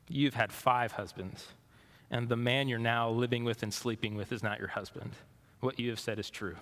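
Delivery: soft, gentle voicing of Jesus; gently. Jesus gently telling the woman the truth, soft and kind. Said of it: "He speaks gently to her".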